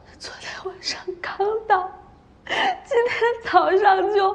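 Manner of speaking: speaking through sobs, tearful and weeping. A witness tells the constable what happened to her companions, crying while talking. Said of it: "你先别哭了".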